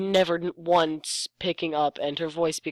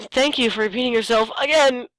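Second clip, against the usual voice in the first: sarcastic thanks; 6 semitones higher, 3 dB louder than usual. Acted. Mocking the repetitive text.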